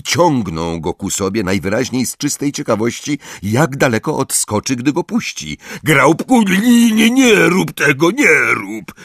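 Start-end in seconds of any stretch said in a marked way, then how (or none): 5.8-8.9 high, loud, urgent pleading shout; alarmed shout. A narrator's reading. Hagrid stopping the giant pulling the pine, urgent shout. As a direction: cry out to stop him at once. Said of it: "krzyknął Hagrid".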